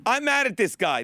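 lightly put-on Spanish accent. Reading a ballplayer's statement on a show, mock Spanish accent. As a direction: imitate Big Papi in a Spanish accent. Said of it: "he's very Spanish".

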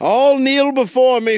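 cold rasping evil emperor. Pretend. Pope voiced as evil ruler.

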